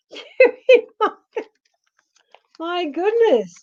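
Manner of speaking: high, breathless laugh into a whisper; laughing disbelief. Real, not acted. To a viewer in her feed, laughing in disbelief.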